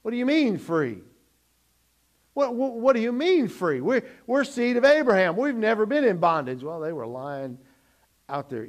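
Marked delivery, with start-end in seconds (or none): 0.0-6.6 higher, louder indignant protest; offended Jews protesting to Jesus, indignant. Acted. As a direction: bristle at the insult. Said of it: "they became indignant".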